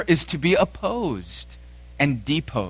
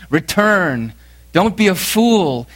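raised voice, higher at the end; calling him back; 5 semitones higher, 5 dB louder, slower than usual. Acted. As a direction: call after him in reproach. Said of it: "his wife and children telling him to return".

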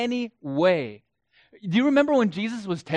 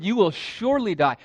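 emphatic warning; 3 semitones higher than usual. Retold or imitated. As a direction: say it as God's certain warning. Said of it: "Absolutely, death is a certainty".

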